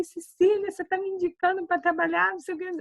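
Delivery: high, teary retelling of her younger self; mock a choked-up young nurse; retold crying. Young nurse tearfully thanking Cecília, mock crying, high. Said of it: "aí eu comecei a chorar".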